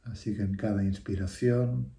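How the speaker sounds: measured meditation voice with long pauses; guided meditation. Real, not acted. Teacher leading listeners through a breathing meditation, unhurried guiding voice. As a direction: guide them through each breath, phrase by phrase.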